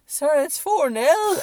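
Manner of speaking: high, loud, slow cracking shout; voice cracking with excitement. Retold or imitated. Fan telling his wife the score, cracking excited shout. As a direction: near tears with joy, voice breaking. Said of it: "my voice is cracking".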